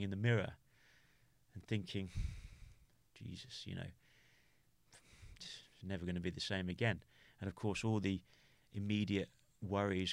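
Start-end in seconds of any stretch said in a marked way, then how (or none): 3.1-7.0 stunned despair. Retold or imitated. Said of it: "that was tough".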